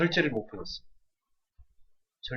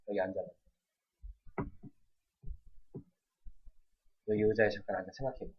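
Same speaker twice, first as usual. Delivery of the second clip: a touch softer, calm, firm; calm parent; 4 semitones lower, 7 dB quieter than usual. Shown as a demonstration. Mother calmly correcting her child, softer. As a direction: model the composed parent, lightly. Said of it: "침착하게 하셔야 돼요".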